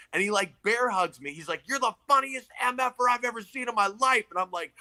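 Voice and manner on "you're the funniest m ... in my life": higher, pumped-up biker voice; hyped-up biker. Retold or imitated. Biker hypes the nervous comic before his set, pumped up. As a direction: pump him up like a big union biker.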